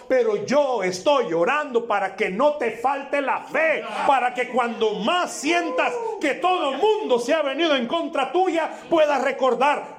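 high, shouted promise from Jesus; preaching shout. Acted. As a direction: cry it out to the congregation.

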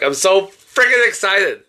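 lightly voiced Kristen Wiig character; a hint of Kristen Wiig excitement; Kristen Wiig impression. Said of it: "where she's like".

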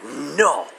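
whispered cat warning; a whispered feline warning; voicing the cat. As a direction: breathe it as a disdainful cat. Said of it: "It's like".

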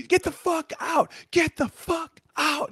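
hammed-up angry receptionist telling a guy off; furious outburst. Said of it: "And she used to, like, freak out".

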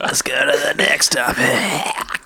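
laughing. Acted. Mocking the line, laughing.

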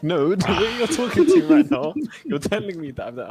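loud, high-pitched retold objection; mock-outraged outburst at the teacher; indignant protest. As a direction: raise the voice in heated protest. Retold heated argument with teacher.

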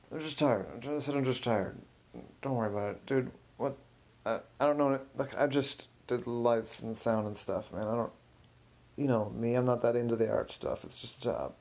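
lightly mumbled, defensive excuses; mumbling. Acted. Tech guy brushing off questions about his mouth, mumbling. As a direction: mumble it like you would rather not open your mouth. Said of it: "Why are you mumbling?".

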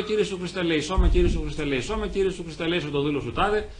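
prayer. Shown as a demonstration. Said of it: "σκύβω το κεφάλι και λέω".

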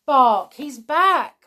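high, loud thrilled cry; excited cry. Acted. Boy Robin calling to his mother about the dog, excited shouting. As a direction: shout the news with joy. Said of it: "he cried".

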